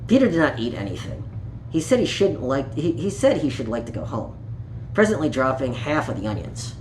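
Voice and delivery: put-on reading a picture book aloud to children; gentle storytime read, page by page; story narration. A narrator's reading. Storyteller reading Peter Rabbit to young listeners, gently.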